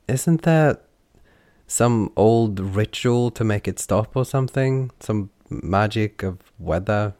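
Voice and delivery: high, loud call over the noise; shouting over rain. Acted. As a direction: shout above the downpour.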